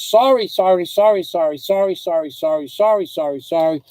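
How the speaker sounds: rapid, repeated pleading, lightly acted; imitated frantic apology. Retelling how the crying woman apologized, mildly mimicked pleading. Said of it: "are going like this".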